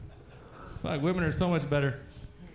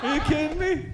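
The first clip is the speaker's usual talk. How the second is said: higher, louder eager yes; eager girlfriend; 9 semitones higher, 4 dB louder than usual. Retold or imitated. Girlfriend keen to say yes, higher and louder. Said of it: "She's like".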